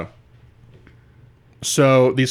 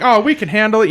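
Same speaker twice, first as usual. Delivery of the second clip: higher, louder mocking whine; mock whiny voice; 9 semitones higher, 4 dB louder than usual. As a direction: mimic them as cocky and whiny. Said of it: "they're like".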